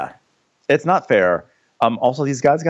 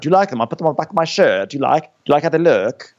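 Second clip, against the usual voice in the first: fast, higher excited chatter; giddy show-off; 6 semitones higher, much faster than usual. Retold or imitated. Laenor showing off sapphires to his wife in fast, giddy chatter. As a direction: gush like a proud fashionista.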